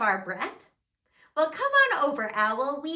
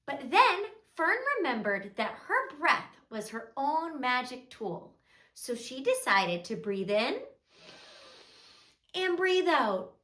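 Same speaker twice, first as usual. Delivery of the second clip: soft, measured storybook narration; children's storytelling; 4 dB quieter than usual. A narrator's reading. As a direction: tell a gentle story to small children.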